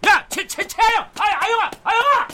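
loud frantic call after her. Acted. Father shouting after his daughter as she runs away, loud frantic call.

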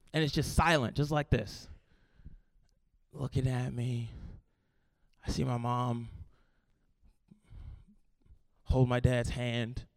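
low, soft, halting telling; hushed suspense. Retold or imitated. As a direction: let the silence hang between phrases. Acts out the tense silence.

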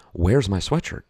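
a touch of mock anger; mad. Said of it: "I'm mad".

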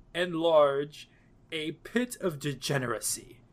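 posh oxford professor; lofty, pompous critic read; intellectual voice. Acted. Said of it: "I'm gonna read this in a intellectual voice".

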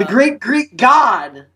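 slow, reverent mock sermon; mock preacher. Preaching Forgiven's mercy to a hater, mock preacher. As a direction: proclaim it slowly from a pretend pulpit.

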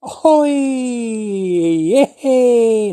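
high, loud hoi of surprise; surprised hoi. Shown as a demonstration. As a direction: cry out as if you can't believe your eyes. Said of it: "like this".

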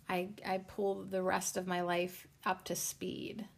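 trailing off into a whisper; half to herself, breathy whisper. Real, not acted. Trailing aside about catching up.

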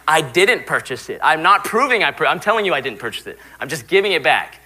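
mildly exasperated retold argument; insist, as if explaining to a confused clerk; a touch of mock frustration; exasperated protest. Retold dispute with store clerk.

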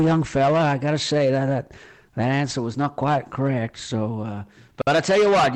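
lightly voiced American boss; folksy American accent, playing the boss; American quizmaster addressing a young fella. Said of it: "I think my American accent was pretty good".

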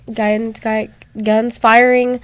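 stumbling over words, mouth not cooperating; words tripping as if the mouth won't work; trouble talking. Real, not acted. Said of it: "I'm having a difficulty today talking".

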